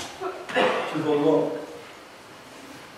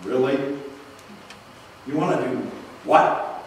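parent's incredulous look; 6 semitones lower, 6 dB quieter than usual. Pretend. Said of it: "That look of".

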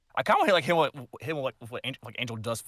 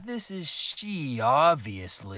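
put-on Valley Girl accent; 3 semitones higher than usual. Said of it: "you do a Valley Girl accent with it".

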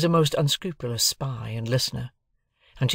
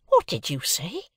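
higher, indignant cry; beginning to scream; 6 semitones higher than usual. A narrator's reading. Sister hears the journeyman's insult, starting to cry out. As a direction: cry out, not yet screaming. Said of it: "cried my sister, beginning to scream".

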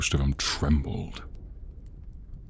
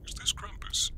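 Kris Kringle voice; 10 dB quieter than usual. Acted. Kris Kringle answers Krampus's call.

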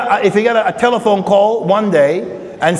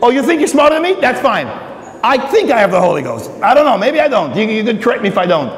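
facetious mock Paul; 2 semitones higher, faster than usual. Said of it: "He is so facetious".

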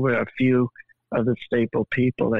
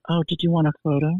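high, quick flirty-sassy quip; bright teasing "want a photo?" fired off fast; 5 semitones higher, faster than usual. Retold or imitated. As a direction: toss it off over the shoulder, playfully coy. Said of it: "I said it in that voice and in that tone".

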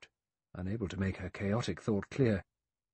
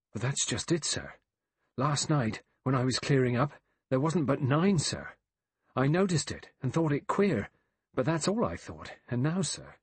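agitated servant, pitched up, stressing the counts; worried servant; 5 semitones higher than usual. Acted. Rogers telling Armstrong the figures have gone missing, agitated. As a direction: report it with rising bewilderment.

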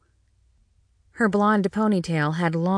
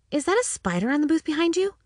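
fast, mock-alarmed tease; quick feigned alarm to trick mother; 10 semitones higher, faster than usual. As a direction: rush it out to spook her. Daughter teasing mother with a trick.

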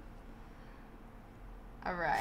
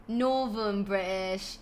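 drawn-out Northern English accent; Northern British accent; 2 semitones lower, slower than usual. Shown as a demonstration. Streamer demonstrating types of British accents, Northern and slow. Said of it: "different types of British accents".

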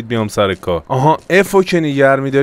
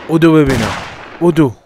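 mock shout; 4 semitones higher, 4 dB louder than usual. Chasing NPC.

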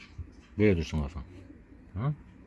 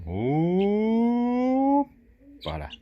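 high, loud hop; playful shout; 12 semitones higher, 4 dB louder, much slower than usual. Pretend. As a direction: cheer as you lift it. Lifting the baby animal up.

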